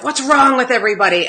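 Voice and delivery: 1 retold anger. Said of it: "And then I was like".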